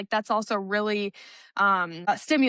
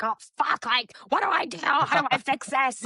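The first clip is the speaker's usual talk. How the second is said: panicked; 4 semitones higher than usual. Retold or imitated. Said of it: "the kid is freaking out".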